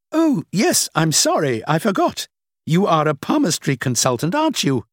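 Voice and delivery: a hint of a dismissive older woman; lightly played older woman, amused. The woman teases.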